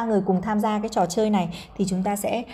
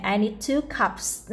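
slow, clear model sentence; much slower than usual. Shown as a demonstration. Teacher reads slowly for children to repeat. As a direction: spell it out slowly for the kids. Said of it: "slow model reading for learners".

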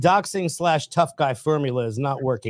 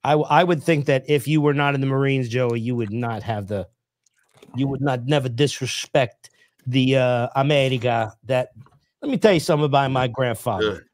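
Italian-American affect; 3 semitones lower than usual. Real, not acted. Defending the Marines to Joey, Italian-American affect. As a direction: slip into an Italian-American affect, drawing out the words. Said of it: "Quit saying it like a fucking Italian".

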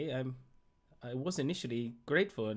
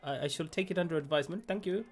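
louder, higher huffy thanks; 7 semitones higher, 6 dB louder than usual. Acted. Player answers the critic with louder, indignant thanks. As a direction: snap back polite thanks.

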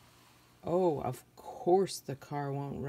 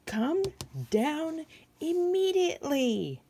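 high, loud call from the ground; mock stern father shouting upward; father yelling; 11 semitones higher, 5 dB louder than usual. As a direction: order them down like an angry father. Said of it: "I think he's yelling".

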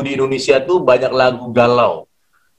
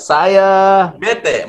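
mock shout; 8 semitones higher than usual.

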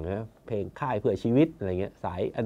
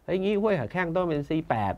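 mock official voice, pitched higher, dragging the last words; Thai bureaucrat; 5 semitones higher, 3 dB quieter than usual. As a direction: playfully mimic a smug civil servant. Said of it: "แบบราชการไทยอะครับ". (ล้อเลียนน้ำเสียงข้าราชการไทย)

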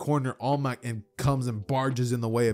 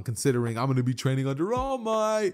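bragging; 2 semitones higher than usual. Retold or imitated. Deku to Bakugo over video games, bragging. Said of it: "he starts bragging".

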